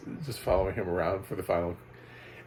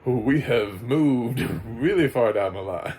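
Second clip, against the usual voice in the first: amused disbelief; 3 semitones higher, 6 dB louder, slower than usual. Real, not acted. Amused at AI narration.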